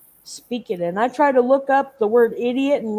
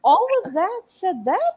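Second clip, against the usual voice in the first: can't believe all that said that; high, loud incredulous squawk; shocked disbelief; 10 semitones higher, 6 dB louder than usual. Real, not acted. Disbelief at translation.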